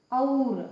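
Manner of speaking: और with open औ, mouth wide; demo word और. Shown as a demonstration. Teacher showing the word और to students, open औ. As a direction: say और with the open औ vowel. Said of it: "औ की मात्रा लगा के".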